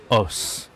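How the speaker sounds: os with open 'aw' vowel. Shown as a demonstration. Teacher explaining the graver vowel, os with open O. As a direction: say os as 'awss', rounded and open. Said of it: "La voix est un peu plus grave".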